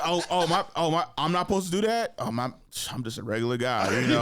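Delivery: lightly acted innocent confusion; playing dumb. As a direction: stumble through it as if clueless. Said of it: "dumb it down to being nothing".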